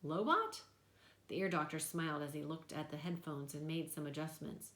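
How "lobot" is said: incredulous. A narrator's reading. Boy repeating, incredulous.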